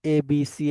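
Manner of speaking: A, B, C the Bangla way; local-style letter names. Shown as a demonstration. Teacher shows students how we read letters, local-style pronunciation. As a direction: say the letters with plain local vowels. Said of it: "আমাদের মতো ওই যে".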